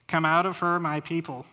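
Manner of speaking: loud proclamation. Acted. Preacher reads God's call to His people, loudly proclaiming. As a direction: Come out of her called out loud and high.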